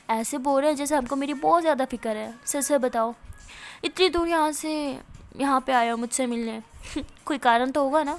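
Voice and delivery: sarcastic, laughing through the words; mocking laughter. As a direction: laugh at the father while talking. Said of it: "میرا ہنسنے لگ جاتی ہے".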